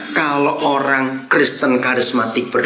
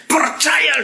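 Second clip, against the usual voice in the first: mock preacher shout; 11 semitones higher than usual. Mimics preacher's call.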